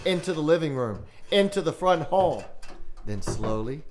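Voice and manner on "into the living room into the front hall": building suspense. A narrator's reading. Footsteps building closer.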